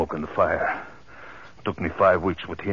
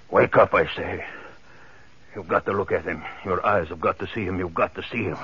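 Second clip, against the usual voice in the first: gloating madman. Acted. Killer gloating to bound Ellen over the corpse, relishing. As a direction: savour every word of the horror.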